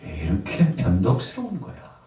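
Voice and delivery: mild acted scolding; retold reproach. Jesus chiding fickle disciples, mild reproach. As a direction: stretch out a chiding question. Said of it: "이렇게 책망한 겁니다".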